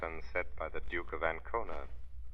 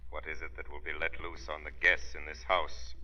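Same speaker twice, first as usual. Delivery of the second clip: eerie unseen voice; 4 dB louder than usual. Acted. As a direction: speak as a voice from the shadows. The Shadow as unseen voice.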